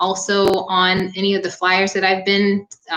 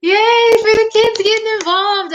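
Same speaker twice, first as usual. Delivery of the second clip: much higher, sing-song yay; delighted cheer; 14 semitones higher, 5 dB louder than usual. Real, not acted. Instructor cheering kids doing yoga, sing-song delight.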